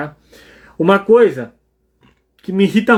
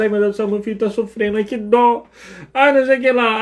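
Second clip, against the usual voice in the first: mock panicked parent; 3 semitones higher than usual. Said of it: "se eu fico desesperado".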